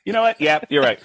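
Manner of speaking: high, laughing and awkward; laughing along. Retold or imitated. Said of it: "I was like".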